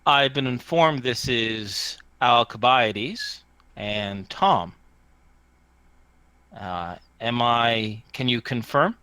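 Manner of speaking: measured and anonymous, a little low; lightly voiced disguised radio caller; low distorted voice. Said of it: "is that low. As it says".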